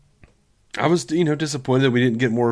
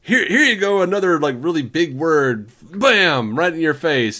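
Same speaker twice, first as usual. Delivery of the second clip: mock odd delivery; 3 semitones higher, 3 dB louder than usual. Parodying the actor's strange phrasing for the co-host, hammed-up and louder. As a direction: punch out the words in a weird order. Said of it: "say words, like, in, in a strange sequence".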